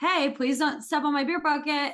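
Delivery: heavily sarcastic, play-acted joking mock-polite tone. Telling a story about a guy at a bar, retelling her own line very sarcastically. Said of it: "like very sarcastically".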